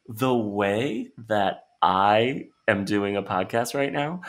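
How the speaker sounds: slow, drawn-out mocking of a Twitter phrase; mocking quote. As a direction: parody the trendy phrase slowly. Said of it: "People need to stop saying".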